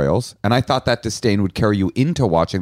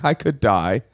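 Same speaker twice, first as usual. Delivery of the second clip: mock swooning gush; 8 semitones higher, much slower than usual. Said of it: "a singer just texted".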